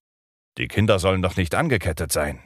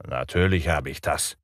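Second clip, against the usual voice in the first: growling; 3 semitones lower than usual. Acted. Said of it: "knurrte Hook".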